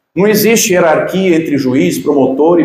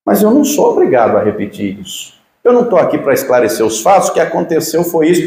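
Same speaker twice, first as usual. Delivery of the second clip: calm; faster than usual. Retold or imitated. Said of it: "calmamente diz".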